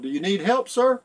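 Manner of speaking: a mild mock yell from a passing boat, rising on sir; captain calling out. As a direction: call out over the water, half-acted. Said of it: "the captain yelled".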